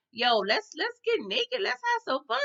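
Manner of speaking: high-pitched mock party boy; excited party urging. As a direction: egg everyone on in a giddy high voice. Rowdy man urges the party on.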